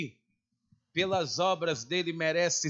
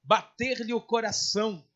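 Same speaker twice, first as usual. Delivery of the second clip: declaimed Bible reading, measured and emphatic; preacher reading scripture aloud; 3 semitones higher, 4 dB louder than usual. Acted. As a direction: read the verses out firmly to a congregation. Reads scripture aloud to congregation.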